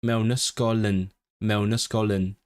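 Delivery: MEWN YSGOL YN run together with no breaks; linked words. Shown as a demonstration. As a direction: practise joining "mewn ysgol yn" into one smooth string. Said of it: "practice the, the connections of the sounds between words".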